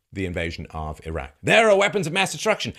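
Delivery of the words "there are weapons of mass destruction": mock media claim.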